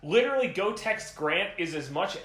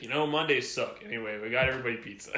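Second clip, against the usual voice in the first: lightly imitating Big B; 5 semitones lower, faster than usual. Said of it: "made him sound a little like Desi".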